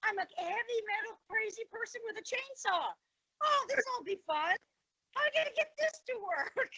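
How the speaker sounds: sarcastic disbelief. Retold or imitated. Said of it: "I was like".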